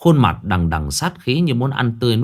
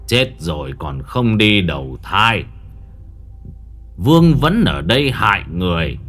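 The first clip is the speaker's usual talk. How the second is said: stern rebuke; 4 dB louder than usual. Acted. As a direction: confront the spirit, rising into a shout. Exorcist rebukes the ghost leader. (quát mắng vong hồn)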